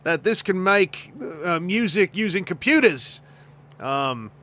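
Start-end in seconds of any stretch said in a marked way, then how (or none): 0.0-3.2 lightly put-on Australian accent; slow, halting Australian bloke voice; mock Australian film director, mildly hammed up; George Miller. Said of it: "George Miller is constantly in a position".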